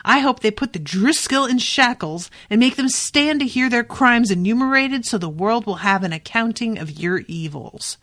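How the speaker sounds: heated, indignant speech with pitch leaping up; impassioned tirade. Acted. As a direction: act out a defiant denunciation. Acted tirade in the quarrel.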